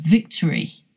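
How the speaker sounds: "victory" with stressed VIC, weak schwa middle; schwa demonstration. Shown as a demonstration. Teacher presenting an example word, schwa demonstration. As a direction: say "victory" clearly, first syllable stressed, middle reduced. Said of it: "So look at this word".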